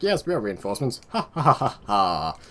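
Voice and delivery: hammed-up troops with a stagey laugh; mock reinforcements voice. Reinforcements announcing themselves to their commander, mock-pompous voice and laugh. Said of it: "'Cause that's how reinforcements speak, apparently".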